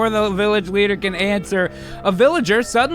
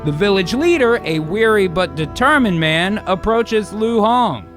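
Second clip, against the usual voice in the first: grand read of stage directions; big, punchy screenplay narrator; dramatic script narration. Acted. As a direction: announce the scene with gusto.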